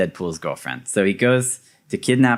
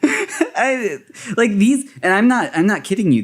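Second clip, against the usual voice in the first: excited insistence; 9 semitones higher than usual. Real, not acted.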